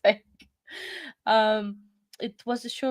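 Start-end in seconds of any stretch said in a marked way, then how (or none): 0.0-0.2 drowsy whisper through a laugh; sleepy whisper. Real, not acted. Yawning on stream, admits her eyes are closing, whispered. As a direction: let it fade to a tired whisper. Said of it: "I can still talk".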